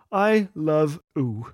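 put-on slow toddler-style "oo" for you; drawn-out baby-talk "oo", lightly imitated. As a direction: say "oo" without its y, like a one-year-old. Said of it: "she whispered the three most beautiful words".

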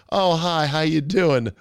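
lightly imitated sweet greeting; real sweet. Host imitates woman greeting the cameraman, real sweet. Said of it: "Instead, she's real sweet".

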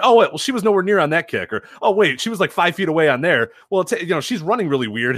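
high, nitpicking nurse voice. Retold or imitated. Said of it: "She went".

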